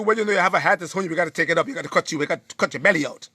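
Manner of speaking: mock doctor rattling off the verdict fast; low, hurried imitation of a doctor; doctor's voice. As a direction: voice dropped low and quick, like a brisk surgeon. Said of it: "the doctor said to you".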